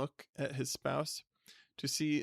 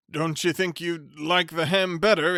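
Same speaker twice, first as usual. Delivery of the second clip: polite stammer; 3 semitones higher, 9 dB louder than usual. Acted. Flustered bachelor greeting his unwanted cousin with a stammer. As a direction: stumble over the greeting, flustered.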